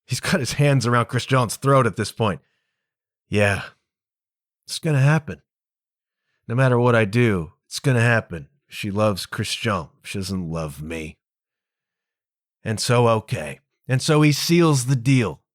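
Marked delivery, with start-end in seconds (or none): 3.3-11.2 resigned heartbreak. Retold or imitated. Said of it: "Cyrano's like".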